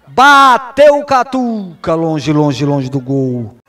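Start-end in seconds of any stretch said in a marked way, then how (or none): 0.1-1.9 loud, stretched shot call; excited call. Real, not acted.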